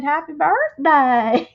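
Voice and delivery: imitated Southern accent. Friend quoting her Southern-accented birthday greeting, imitated Southern accent. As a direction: mimic a Southern accent, stretching the words. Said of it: "You have a Southern accent".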